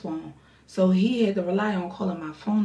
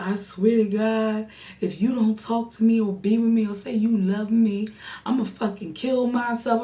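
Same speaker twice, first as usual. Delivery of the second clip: louder, insistent mock ultimatum; imitated desperate threat; 3 semitones higher, 4 dB louder than usual. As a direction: act out a caller's overwrought threat. Caller threatens her, acted.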